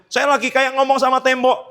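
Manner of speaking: loud, high exasperated cry; exasperated complaint. Retold or imitated. Preacher voicing a frustrated believer waiting on God, loud exasperation. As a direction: throw up your hands at the wall.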